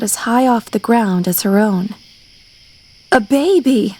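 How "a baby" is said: gasped. A narrator's reading. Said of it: "she gasped".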